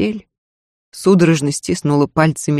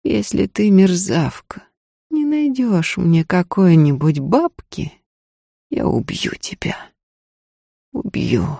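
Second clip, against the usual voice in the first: dead voice. Acted. Lady coldly threatens the maid, deathly flat. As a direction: threaten her without any feeling. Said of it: "мёртвым голосом сказала".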